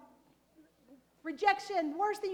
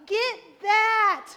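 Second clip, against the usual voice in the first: loud, forceful command; much louder, driving the words home; 3 semitones higher, 10 dB louder than usual. Acted. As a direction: punch it out like a rally cry. Climax of building anger.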